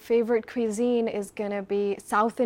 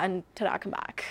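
whispered ta-da; 3 semitones lower, 6 dB quieter than usual. Acted. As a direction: drop to a hushed whisper on ta-da. Whispered flourish after ta-da.

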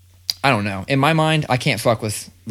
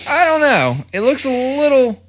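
much higher, louder nervous hedging; mock hesitant; 14 semitones higher, 6 dB louder than usual. Dad telling the sushi clerk his doubts, mock high nervous hedge. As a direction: squeak out the doubt. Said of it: "And I was like".

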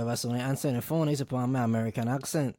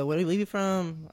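curious stranger; 6 semitones higher, slower than usual. Acted. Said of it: "and you say".

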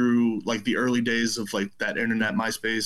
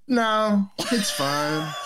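retold dismissal; 8 semitones higher, much slower than usual. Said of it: "He's like".

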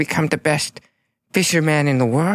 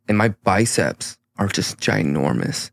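deep hero voice; 7 semitones lower than usual. Acted. Smoggle's powered-up deep voice.

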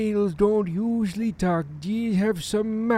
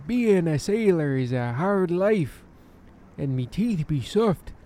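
put-on pirate accent; 3 semitones lower than usual. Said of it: "you sound a lot like a pirate".

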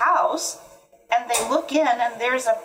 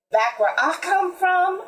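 high-pitched musing mule; 8 semitones higher than usual. A narrator's reading. Mule tells the animals about home, high and musing. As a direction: muse it aloud, pitched well up. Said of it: "mused the mule".

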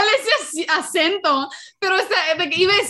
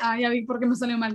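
calm realization; 4 semitones lower, faster than usual. Retold or imitated. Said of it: "an audible representation of how Raquel and Mia sound".

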